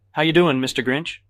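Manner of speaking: high, loud boozy greeting; drunken bellow. A narrator's reading. Peterson teasing his friend, bellowing drunkenly. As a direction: holler it with tipsy heartiness. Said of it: "Peterson bellows drunkenly".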